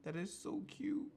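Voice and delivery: high delighted tone; excited gush. Real, not acted. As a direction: squeal with delight. Gushing over cute card.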